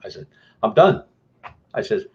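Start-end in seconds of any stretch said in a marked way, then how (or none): 0.6-1.0 retold fed-up shout. Repeats that he quits.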